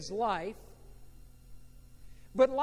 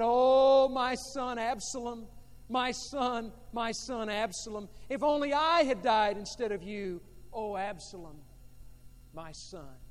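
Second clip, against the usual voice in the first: weeping lament; 4 dB louder than usual. Acted. Preacher voicing King David weeping for his son, anguished then fading. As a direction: let the grief cry out then die away. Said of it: "and wept".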